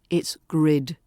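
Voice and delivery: "grid." short and sharp; "it's grid." with a crisp short I. Shown as a demonstration. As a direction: clip "grid." clean, no trailing vowel. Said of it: "This is short and sharp".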